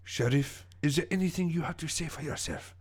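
lightly voiced smug villain with a French accent; theatrical accented villain. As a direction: explain your scheme as a French-accented villain.

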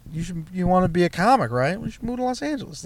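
high, fast manager voice mimicry; lightly mimicked boss urging a move; quoted manager. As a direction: play the boss cheerfully pushing him out.

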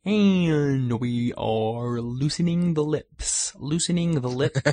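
prim precise elocution. Pretend. Slow elocution on catchphrase.

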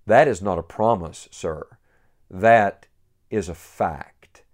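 firm and clipped, with a smile; sharp, smiling correction. Retold or imitated. Old saint correcting the great preacher, sharp but smiling. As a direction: set him straight, kindly but firmly. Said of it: "said sharply to him with a smile".

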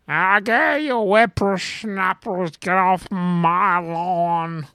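put-on slow, high cranky old-timer voice; grumpy old man. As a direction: shake your cane at the kids. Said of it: "and then I could yell about the kids".

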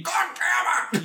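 high, drawn-out cry of fury; mock rage. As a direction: throw a hammed-up tantrum. Imagining the admiral's rage fit.

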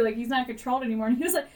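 usual speaking voice

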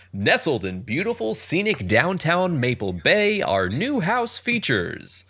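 lightly voiced real estate announcer; slow, hammy sales pitch; cheesy announcer voice. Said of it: "do my best cheesy announcer voice".

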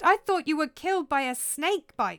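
put-on young prince taken aback; shocked protest. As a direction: question it in startled disbelief. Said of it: "cried Hamlet".

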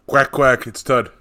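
loud quacking duck call. Acted. Tud enters as duck character.

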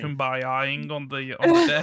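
words broken by laughter; laughing. Real, not acted. Laughing through a joke.

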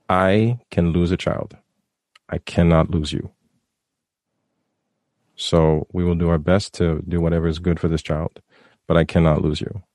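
choking up while speaking; choked up. Real, not acted. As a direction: voice tight with emotion. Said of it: "I am choking up right now".

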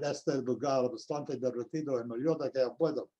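put-on an old role's line spoken in learned-by-ear Portuguese; Portuguese stage line. Shown as a demonstration. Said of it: "That's Portuguese".

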